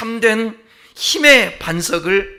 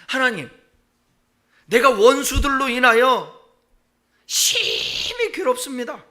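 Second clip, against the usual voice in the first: slow, higher, breaking lament; anguished lament; 5 semitones higher than usual. Acted. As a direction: let the voice crack with grief. Acted lament psalm, crying. (울먹이며 천천히 탄식)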